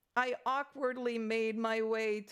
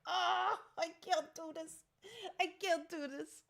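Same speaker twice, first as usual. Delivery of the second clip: overwhelmed mock whimper; 5 semitones higher than usual. Retells being overwhelmed before idols.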